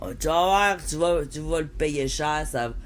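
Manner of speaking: threatening voice. Retold or imitated. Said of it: "c'est ça qu'il va dire comme menace".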